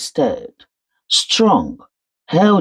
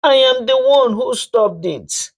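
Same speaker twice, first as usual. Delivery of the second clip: put-on confessing old woman; 9 semitones higher than usual. Mother-in-law confesses curse.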